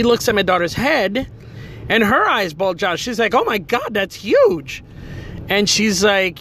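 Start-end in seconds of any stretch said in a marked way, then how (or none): 3.3-4.8 higher, startled exclamation; shocked nurse. Retold or imitated. Nurse sees the girl's goose egg, startled. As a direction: react like a nurse spotting a big swelling.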